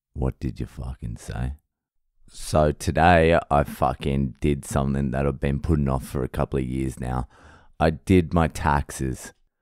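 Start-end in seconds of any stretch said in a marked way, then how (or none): 0.2-1.6 deep, low, threatening, ominous menace. Showing off a deep, croaky voice today: mock ominous voice. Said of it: "It's ominous, isn't it?".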